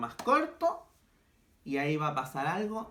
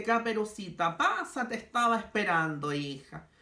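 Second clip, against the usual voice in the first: a higher, sugary mock granny voice; wolf as grandma; 5 semitones higher than usual. Wolf in disguise inviting Caperucita in, mock granny voice. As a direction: lure her in as a fake grandmother, pitched up. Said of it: "imitando la voz de la abuelita".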